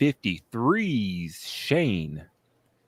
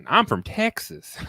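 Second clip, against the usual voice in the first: put-on high, childlike proud answer; little kid; 11 semitones higher than usual. Host imitating himself at four answering family, high kid voice. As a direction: pipe up like a four-year-old. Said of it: "and I was like".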